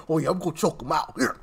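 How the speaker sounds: hammed-up old man talking tough; mock old tough guy. Mid-seventies man grappling a Secret Service agent, mock tough. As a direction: put on a mocking old-man struggle. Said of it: "mid-seventies man".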